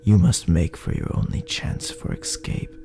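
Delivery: ordinary delivery, nothing marked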